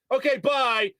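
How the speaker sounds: high-pitched hollered goodbye; imitated yelling. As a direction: imitate an oblivious guy still yelling. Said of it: "Still yelling".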